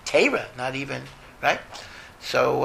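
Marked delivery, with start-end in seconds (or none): 0.0-0.5 Litvak Teira. Shown as a demonstration. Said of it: "A Litvak says Teira".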